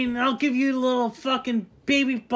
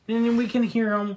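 normal talking voice

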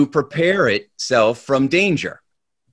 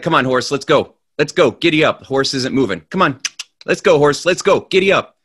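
coaxing the horse; 2 semitones higher, 3 dB louder, faster than usual. Acted. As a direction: coax a stubborn horse, building up. Guy urges a horse that won't move.

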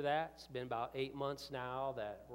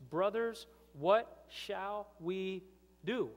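a higher and louder cry of "Brothers, what shall we do"; anguished cry; 6 semitones higher, 5 dB louder, much slower than usual. Acted. Crowd crying out to Peter, anguished and loud. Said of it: "they said to Peter".

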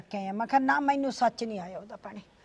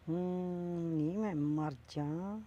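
drawn-out shock; 6 semitones lower, 8 dB quieter, much slower than usual. Acted. Shocked aunty, dragged out.

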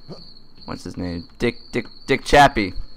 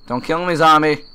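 mock plea; 4 semitones higher than usual. Gamer begging a game zombie, mock whine. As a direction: plead up at the zombie in a put-on whine. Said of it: "Please don't kill me, zombie".

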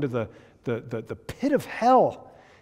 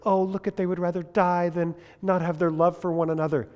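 mock swooning admirer; 3 semitones higher than usual. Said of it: "we look at the Shakespeare and say".

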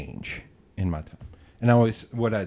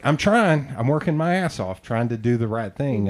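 higher, louder insistence easing off; retold exasperated protest; 5 semitones higher, 5 dB louder than usual. Telling a friend about struggling with pronouns, exasperated. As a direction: act out pleading your good effort.

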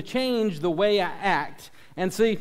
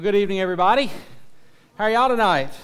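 polished broadcast greeting, a bit louder; news anchor voice; 4 dB louder, much faster than usual. Acted. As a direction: greet them like the evening news. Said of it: "I just went into my news anchor voice there".

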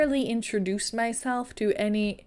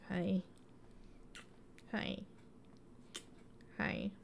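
soft whisper to dog; 4 semitones lower, 17 dB quieter, slower than usual. Real, not acted. Greeting the dog softly.

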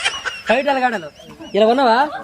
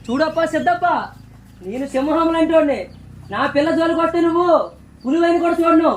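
lion hero dialogue. Shown as a demonstration. Director demonstrating the lion punch line. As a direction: boast like a lion warning a rival. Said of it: "అది next dialogue".

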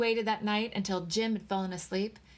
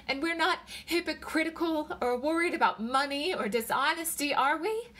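high, worried questioning; anxious pleading; 7 semitones higher, 3 dB louder than usual. A narrator's reading. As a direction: seek reassurance, voice climbing at the end. Wife seeks reassurance from husband.

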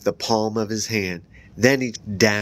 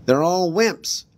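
higher, slow sneering bully voice; Conan; 9 semitones higher, 4 dB louder, slower than usual. A narrator's reading. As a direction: scorn your teammates. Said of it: "Evan heard Conan say".

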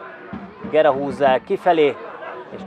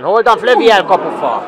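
high, loud burst as the shot hits the post; excited hungarian sports commentary; 7 semitones higher, 7 dB louder than usual. Acted. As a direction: shout the shot, then the post. (izgatott, hangos közvetítés)

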